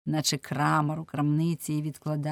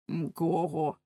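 pestered hapless man. Acted. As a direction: grumble the threat in a lowered voice. Figure: pestered man threatens.

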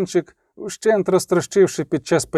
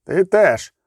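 controlled threat at moderate volume; cool, understated menace; menacing calm; 2 semitones higher than usual. A narrator's reading. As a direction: threaten him calmly, without shouting. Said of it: "запевнив його з грізним спокоєм у голосі".

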